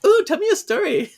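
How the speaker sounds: put-on high, childlike plea; eager child voice. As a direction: beg for a story like a little kid. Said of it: "She's like".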